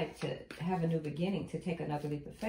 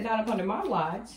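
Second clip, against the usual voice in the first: louder mock outrage tipping into laughter; pissed-off queen; 2 semitones higher, 5 dB louder than usual. Tarot reader voicing the Queen's ban, mock angry. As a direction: forbid it as the angry queen, amused. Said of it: "the Queen is pissed".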